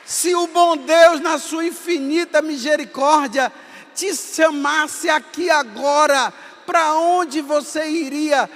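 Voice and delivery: loud, slow, high-pitched shouted sermon; fiery preaching. Acted. Priest urging youth at São Miguel camp, shouting sermon. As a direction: thunder it at them like a revival preacher.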